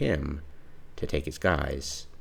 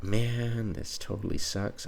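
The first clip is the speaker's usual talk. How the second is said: frustrated whine; 6 semitones higher, slower than usual. Retold or imitated. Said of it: "I'm getting really frustrated right now".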